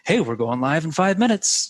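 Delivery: light webinar promoter impression; Alex Becker. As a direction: casually mimic an online marketer's hype. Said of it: "That's a good Alex Becker impression".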